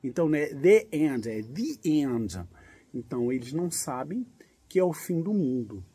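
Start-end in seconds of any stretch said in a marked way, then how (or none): 0.5-1.3 the end with the said as thee; the before a vowel. Shown as a demonstration. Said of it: "passa a ser the antes de vogal".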